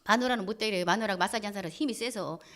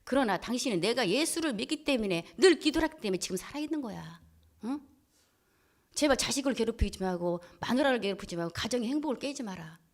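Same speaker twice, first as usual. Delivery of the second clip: mild soothing plea. Retold or imitated. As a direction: plead gently, as if calming someone down. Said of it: "그래서 제가 달랩니다".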